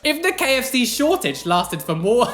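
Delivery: reading the question while giggling; fighting back laughter; laughing. Real, not acted. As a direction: breaks up halfway through reading. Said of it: "I can't believe".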